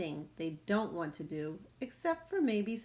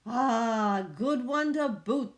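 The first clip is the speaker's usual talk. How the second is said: agreeing pirates; 3 semitones higher, 6 dB louder, slower than usual. Acted. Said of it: "the others agreed".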